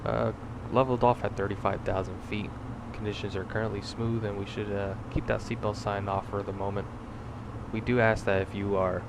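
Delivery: cabin announcement, captain's PA voice; brief the passengers like an airline captain; pilot over the radio. Acted.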